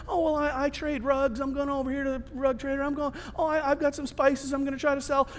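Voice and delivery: soft, rambling casual reply; chill small talk. Acted. Passenger telling another about his trade, chill. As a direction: chat idly about your trade, quietly. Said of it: "Everybody's just chill".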